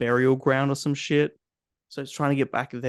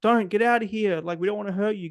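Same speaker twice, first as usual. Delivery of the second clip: mock pleading Nora; 7 semitones higher than usual. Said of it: "Nora, is like".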